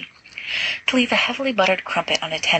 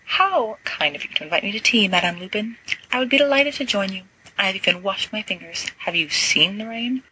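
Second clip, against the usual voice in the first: lightly raised, hammed-up genteel guest; mock-polite Sirius; 3 semitones higher than usual. Sirius teasing Remus as a prim guest, mock-polite. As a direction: play the overly proper tea guest, a little higher.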